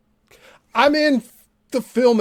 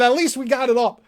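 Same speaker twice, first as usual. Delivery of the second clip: mocking Tom; 4 semitones higher than usual. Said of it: "He's saying".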